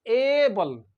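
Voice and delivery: "able" with a long stretched ay: AY-bul; demonstrating pronunciation. Shown as a demonstration. Teacher models able for learners, careful pronunciation. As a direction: draw out the first vowel of "able". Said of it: "How do we pronounce".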